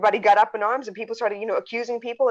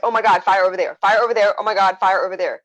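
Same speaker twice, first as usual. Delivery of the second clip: louder, alarmed cries of fire; mock panic; 4 dB louder than usual. Friend mimics people panicking over news, mock panic. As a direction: play someone frantically pointing at a fire. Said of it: "It's not enough for you to be like".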